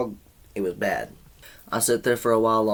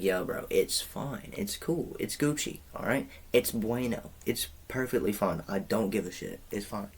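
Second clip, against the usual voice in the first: quiet, easygoing reassurance; calm him down gently; soft reassuring; 6 dB quieter than usual. Retold or imitated. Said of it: "I was just like".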